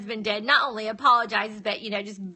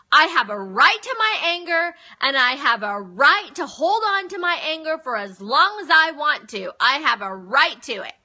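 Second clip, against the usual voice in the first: acted stubborn self-righteousness, stressed hard; mock insistence; 2 semitones higher, 4 dB louder than usual. Voicing the wrong belief about anger, mock insistence. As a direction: lightly dig in, as if defending a grievance.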